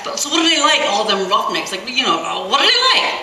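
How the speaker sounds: put-on high, nervous young voice with a laugh; eager boy voice. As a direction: ask like a jittery kid. Chris asking nervously.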